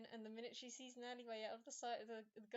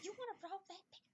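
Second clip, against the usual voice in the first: indignant question; 9 semitones higher, faster than usual. Acted. Repeated scolding question.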